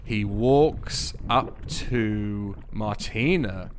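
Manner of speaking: slow, deliberate storytelling; game master narration. A narrator's reading. Game master describing the dwarf approaching Martina, deliberate narration. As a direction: savour the description, building to a reveal.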